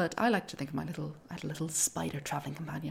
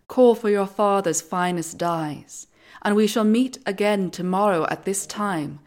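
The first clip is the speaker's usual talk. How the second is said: slow, loud regal goddess voice; commanding goddess; 3 semitones higher, 9 dB louder, slower than usual. Acted. Athena speaks to Arachne.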